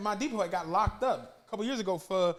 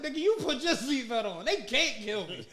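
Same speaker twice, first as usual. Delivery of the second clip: imitating a rapper. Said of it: "He said".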